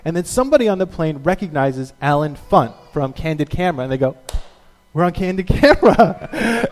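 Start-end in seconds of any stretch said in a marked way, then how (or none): 4.9-6.7 laughing, relieved mock shout; delighted realization. Passenger recognizing Alan Funt, laughing relief. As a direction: passengers relieved it's a prank.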